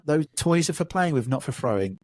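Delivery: imitating a calm, patient parent; measured explaining to a toddler. Dad explaining toys to his throwing toddler, calm voice. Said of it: "in a really calm voice".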